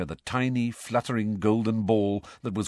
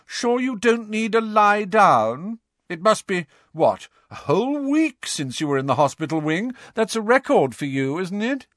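sneering Malfoy; 10 semitones higher, 4 dB louder than usual. Acted. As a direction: drag out the jeer to needle him. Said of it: "called Malfoy".

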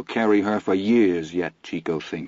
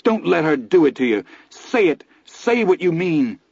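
higher and louder, tearful; weeping plea; 9 semitones higher, 4 dB louder than usual. A narrator's reading. Son pleading with his father, weeping high. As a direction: plead through tears, voice pitched up. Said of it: "Chico weeps".

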